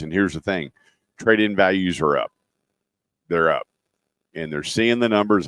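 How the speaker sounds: upbeat radio announcer read; live ad read. Acted. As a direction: sell it like a live dealership spot.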